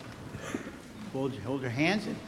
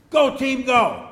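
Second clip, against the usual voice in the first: raised, higher cheer; demonstrated team cheer; 9 semitones higher, 11 dB louder, slower than usual. Shown as a demonstration. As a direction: show kids how fans yell. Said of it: "then you yell out like".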